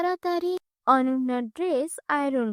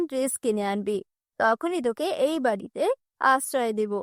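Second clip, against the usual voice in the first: lower, scolding stepmother voice; harsh stepmother; 3 semitones lower than usual. Acted. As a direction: threaten the girl coldly.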